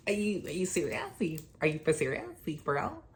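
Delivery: high, disbelieving mock outrage; incredulous outrage. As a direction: squeal it in disbelief. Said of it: "So I was fucking pissed".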